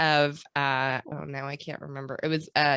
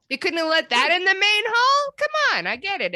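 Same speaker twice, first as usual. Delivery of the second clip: put-on a brash New York accent, pitched up and louder; 13 semitones higher, 6 dB louder than usual. Podcast host slipping into a New York accent to protest. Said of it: "I don't know why I've become New York".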